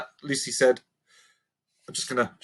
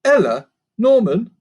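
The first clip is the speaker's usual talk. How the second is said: louder, calling two names; 9 semitones higher, 8 dB louder than usual. Acted. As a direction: call your friends across the room. Lucy calling her friends.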